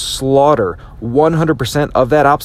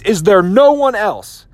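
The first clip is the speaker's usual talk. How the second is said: confident challenge; 6 semitones higher, slower than usual. Retold or imitated. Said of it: "Achilles walks up to the entire army, and he says".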